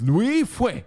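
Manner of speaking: punched-up mock-Asian accent on the name; exaggerated Asian emphasis. Shown as a demonstration. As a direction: hit the name hard in a hammed-up Asian accent. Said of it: "You gotta put a little emphasis on it".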